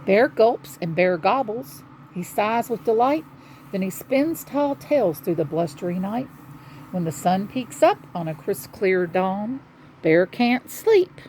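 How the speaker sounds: rhythmic picture-book storytelling; children's story narration. A narrator's reading. Telling children how bear's night ends, storytelling. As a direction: read the happy ending out to children.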